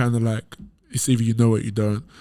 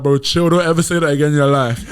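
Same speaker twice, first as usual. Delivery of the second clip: louder, laughing warning; laughing protest; 2 semitones higher, 4 dB louder than usual. Retold or imitated. To English friends, laughing and louder. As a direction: laugh off being called American. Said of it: "I'm like".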